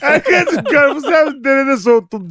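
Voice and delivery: high, sugary wife voice; high sweet wife voice. Retold or imitated. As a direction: coo it like a doting wife.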